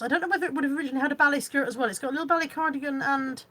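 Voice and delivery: rushing past hiccups; quick words between hiccups. Real, not acted. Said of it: "sorry, I've got hiccups".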